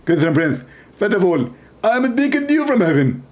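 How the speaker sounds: a light parody of a preacher's lecturing voice; half-hearted preacher impression; mock Zakir Naik. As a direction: play a pompous debater, lightly. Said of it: "He speak like this".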